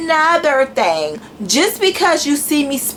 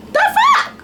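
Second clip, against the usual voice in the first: incredulous. Real, not acted. Baffled reaction to critics.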